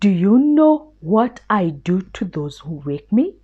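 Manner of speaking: a lion growling a threat. Acted.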